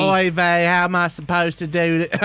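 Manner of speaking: put-on Yiddish accent. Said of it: "I got too much Southern in there".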